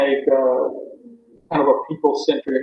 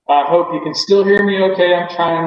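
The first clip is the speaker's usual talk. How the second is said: calling loudly into the mic; raised voice; 3 semitones higher, 4 dB louder than usual. Real, not acted. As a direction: raise your voice so the call can hear. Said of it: "It was helpful when you were yelling".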